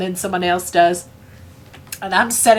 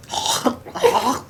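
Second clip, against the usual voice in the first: gagging noise; 5 semitones higher than usual. Retold or imitated. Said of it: "started making gagging noises".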